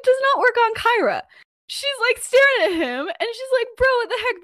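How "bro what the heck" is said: high-pitched mock outrage; acted indignation. Kyra staring at Peter before throwing down her cards, indignant. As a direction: pitch it way up, imitating an exasperated girlfriend. Kyra quarrels, about to storm off.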